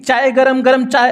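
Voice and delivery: lightly voiced chaiwala shouting his wares; tea vendor's call. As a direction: cry out the tea like a train vendor. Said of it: "ऐसे बोलते हैं ना".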